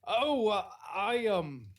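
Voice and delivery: lightly put-on New Zealand accent. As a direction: play a friendly New Zealand bartender. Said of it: "as the authentic New Zealander".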